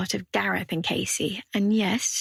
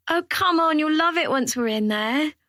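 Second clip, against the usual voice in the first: much higher, louder pleading push; coaxing; 7 semitones higher, 4 dB louder than usual. A narrator's reading. Zoe urging Casey to come to the club, eager and coaxing. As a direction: talk her into it, all eager.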